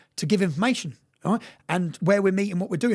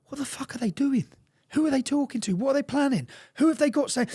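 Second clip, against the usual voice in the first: panicked disbelief; 7 semitones higher than usual. Retold or imitated. Panicked inner outburst.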